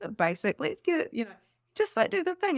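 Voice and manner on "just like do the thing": usual speaking voice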